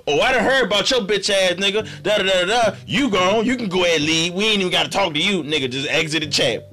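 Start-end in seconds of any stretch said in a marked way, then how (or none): 0.1-5.4 mock telling-off. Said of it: "checking niggas the fuck off".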